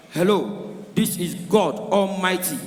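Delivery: slow, booming divine announcement; mock God voice. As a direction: announce yourself as God, slowly. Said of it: "God fit call Yoruba man".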